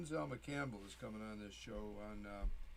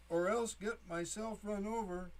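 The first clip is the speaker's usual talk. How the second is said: laughing; 8 semitones higher than usual. Real, not acted. Laughing through his own poem.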